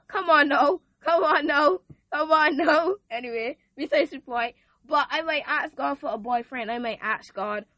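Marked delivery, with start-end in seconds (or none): 0.1-2.9 emphatic exclamation. Real, not acted.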